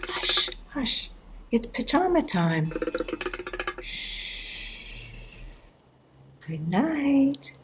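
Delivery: soft bedtime whisper; tucking in at bedtime. Acted. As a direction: hush them gently to sleep.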